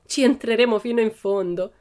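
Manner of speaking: high, forceful "fino in fondo"; emphatic. A narrator's reading. Pippi to Tommy, resolute emphasis on "fino in fondo". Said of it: "esclamò Pippi con enfasi".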